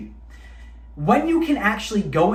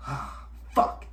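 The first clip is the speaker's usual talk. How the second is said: defeated breathy curse; 7 semitones lower, 8 dB quieter than usual. Retold or imitated. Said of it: "giving in".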